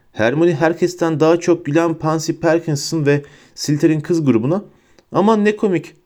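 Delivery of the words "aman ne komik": high-pitched sarcastic mockery; mocking. A narrator's reading. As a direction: make fun of them in a high, sneering voice. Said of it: "dedi alaylı bir ses tonuyla".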